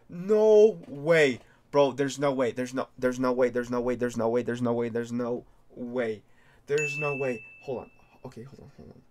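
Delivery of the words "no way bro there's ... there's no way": loud, repeated gasps of disbelief; stunned disbelief. Real, not acted. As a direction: keep saying it like you can't believe it. Repeating disbelief after big pull.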